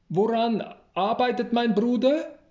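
startled outcry at the door; flustered exclamation. A narrator's reading. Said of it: "ruft er verdattert aus".

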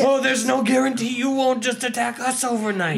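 mocking echo. Echoes game master's line back in argument.

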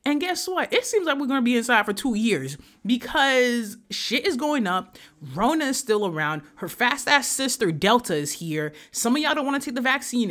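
ranting, high and heated; fed-up rant. Real, not acted. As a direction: let the anger at the pandemic spill over. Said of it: "I am so fucking mad".

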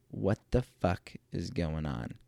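slow, restrained exasperation; pissed off. Retold or imitated. Husband hearing the alarm again, slow and pissed off. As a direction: seethe slowly, without raising the voice.

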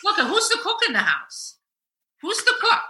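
wife teasing husband that she is the cook; laughing mock scold. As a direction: lay down the law while laughing. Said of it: "I said to him".

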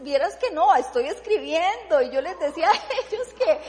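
can't contain the joy of writing again; joyful and loud. Real, not acted. Telling her family she can write again, joyful and loud. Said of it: "yo me siento tan feliz".

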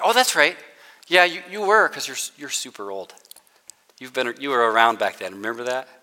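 a mocking, teasing tone, dropping to a quiet jab; sarcastic God. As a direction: tease him with mock agreement. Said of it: "a little bit of sarcasm".

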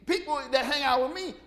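can't believe they'd come; startled Matthew. Retold or imitated. Matthew shocked that Jesus wants his house, high and laughing. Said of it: "Matthew goes".

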